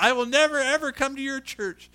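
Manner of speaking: imitated outrage, pitched high; mock-indignant churchgoer; indignant scolding. She shakes her finger at me.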